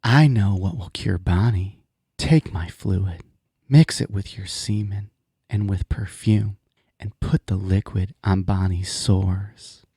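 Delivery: slow, low seductive purr. Acted. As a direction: seduce him slowly, hammed up. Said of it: "told Joseph in a seductive voice".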